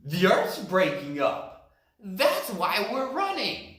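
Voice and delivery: running yell. Acted. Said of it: "they yelled as they ran past".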